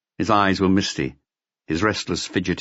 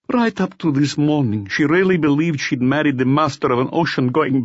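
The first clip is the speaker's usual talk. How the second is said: bitter, weary man telling his story; a drunk forger owning up to Maigret; confessing brother; 10 semitones higher than usual. Acted.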